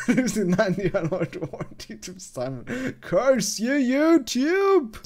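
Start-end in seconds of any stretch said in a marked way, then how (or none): 3.0-5.1 mock curse. Mock shaking fist at YouTube.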